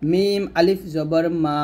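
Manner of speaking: slow spelling, long held মা at the end; drawn-out madd. Shown as a demonstration. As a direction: stretch the vowel of মা one beat. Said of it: "এক লিপ পরিমাণ টেনে পড়তে হবে".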